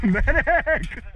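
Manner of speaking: laughing shout. Real, not acted. Hit again, calling medic laughing.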